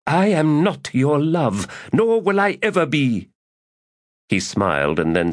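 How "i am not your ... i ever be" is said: cold rejection. Acted. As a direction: shut him down coldly. Priestess coldly rejecting him.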